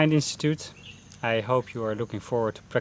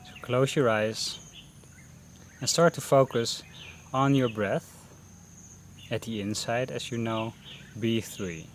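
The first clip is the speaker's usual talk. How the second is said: unhurried meditation guidance with long pauses; guided meditation; 10 dB quieter than usual. Real, not acted. Teacher leading beginners through a mindfulness breathing session, guided meditation voice. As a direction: guide them gently into breath focus, pausing between phrases.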